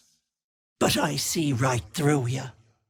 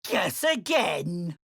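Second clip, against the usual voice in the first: taunt; 4 semitones higher, slower than usual. Acted. Hag taunts.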